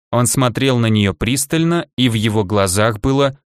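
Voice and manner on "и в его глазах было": plain reading voice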